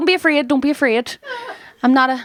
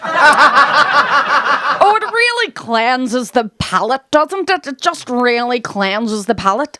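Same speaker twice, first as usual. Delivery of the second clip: posh lady; much slower than usual. Retold or imitated. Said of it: "she was going".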